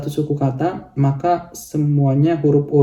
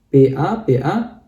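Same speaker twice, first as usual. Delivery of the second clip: letters spelled out; slower than usual. Shown as a demonstration. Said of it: "Sama juga seperti ini".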